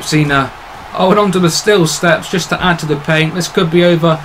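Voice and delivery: lively play-by-play call; wrestling commentator. Acted. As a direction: hype up the match like a ringside announcer.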